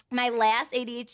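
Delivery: choking from laughing; talking through a choke; choking on a drink. Real, not acted. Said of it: "I'm actually choking because you made me laugh so much".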